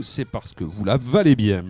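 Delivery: mock commercial slogan, drawn out. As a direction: sell it like a cosmetics advert. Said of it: "c'est le slogan de la maison".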